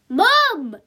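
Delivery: loud, high protest; embarrassed teenager crying out at Mum; exasperated wail of one word; mortified daughter. A narrator's reading. Daughter embarrassed in front of class.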